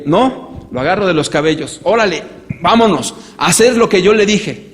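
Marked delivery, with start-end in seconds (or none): 0.0-0.7 put-on child refusing. 1.8-4.6 loud, forceful yelled orders; violent father. Acted. Father grabbing his son by the hair, yelling orders. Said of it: "cada vez me vuelvo más violento".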